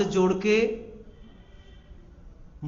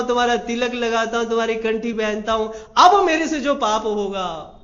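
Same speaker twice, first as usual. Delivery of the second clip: blackmailing demand; 3 semitones higher, 6 dB louder than usual. Acted. Devotee blackmails God.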